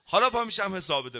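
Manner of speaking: mock angry father. Father threatening his naughty children, mock angry.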